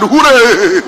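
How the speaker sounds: class cheering. Retold or imitated. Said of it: "the whole class shouted".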